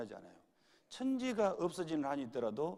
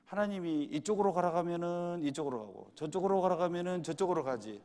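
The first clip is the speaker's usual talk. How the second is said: a hint of a churchgoing mother's helpless reply, pitched up; lightly voiced elderly mother; 3 semitones higher, 4 dB louder than usual. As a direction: lightly imitate an older woman answering, in standard Korean. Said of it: "그 어머니가 대답을 이렇게 했어요".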